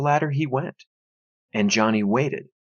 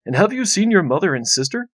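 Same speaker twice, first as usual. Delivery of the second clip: father; 6 semitones higher than usual. A narrator's reading. Father questions son.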